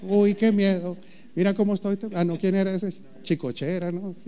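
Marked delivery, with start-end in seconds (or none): 0.0-2.2 mock fear. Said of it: "Y luego dice Dios".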